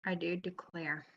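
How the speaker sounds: Yankee take, low-key; Yankee accent. Shown as a demonstration. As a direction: say it the Yankee way, R sounded. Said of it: "You tried to do your Yankee".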